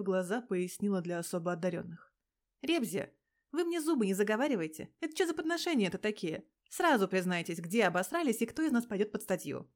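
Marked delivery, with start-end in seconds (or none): 2.6-9.7 put-on loud, scolding a pair of naughty kids; scolding like a mother. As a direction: tell them off like a cross mother. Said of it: "Отчитывала их, как мать нашкодивших детей". (отчитывает, как мать нашкодивших детей)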